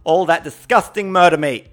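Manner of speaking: lightly camp preachy voice; mild mock vegan lecture; put-on accent. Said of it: "that gay accent".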